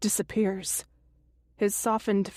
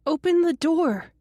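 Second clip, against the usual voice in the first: loud, high-pitched demand; 8 semitones higher, 5 dB louder than usual. A narrator's reading. Pounding on the door to get in, demanding. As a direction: demand it forcefully through a door. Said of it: "I demand, pounding hard".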